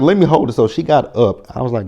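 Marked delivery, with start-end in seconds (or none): 0.0-0.5 high, loud put-on pleading voice; mock whiny Anna. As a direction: beg in a shrill mocking mother voice. Voicing Anna's plea.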